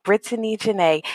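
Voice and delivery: "Brittany Janae" with Brittany said in three full syllables, BRIT-a-ny. Shown as a demonstration. Guest introducing herself, stressing the three syllables of Brittany. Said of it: "Emphasis on the three syllables".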